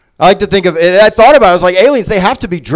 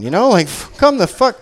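ordinary delivery

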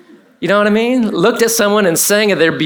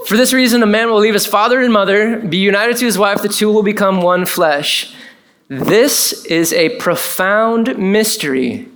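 building excitement; 3 semitones higher than usual. Shown as a demonstration. Preacher to congregation, rising excited reading of scripture. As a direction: read it like a big reveal. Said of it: "Y'all ready? Buckle your seatbelts".

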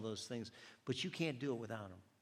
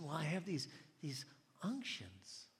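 gentle explanation; 4 semitones higher, 3 dB quieter than usual. Retold or imitated. Lady explains, word later echoed.

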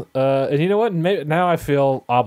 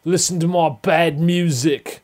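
Russell Crowe impression; 3 semitones higher, slower than usual. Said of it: "my impression of Russell Crowe".

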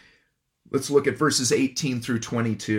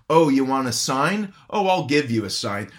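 ironic; 3 dB louder than usual. Retold or imitated. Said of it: "quite ironically to Zacharias".

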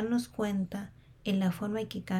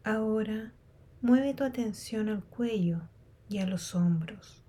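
unhurried meditation guide with long pauses; guided meditation. Real, not acted. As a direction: guide them calmly through a body scan, leaving space between phrases. Leads a body scan meditation.

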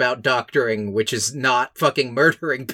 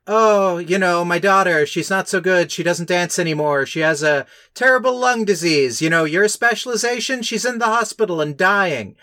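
higher, imploring Italian mama voice; lightly voiced pleading mom; pleading old mother; 5 semitones higher than usual. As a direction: beg the doctor as a worried mother. Mother of sick girl voiced.

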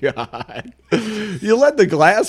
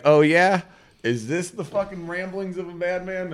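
wild unhinged ranting; 6 semitones higher than usual. Retold or imitated. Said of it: "he's like".

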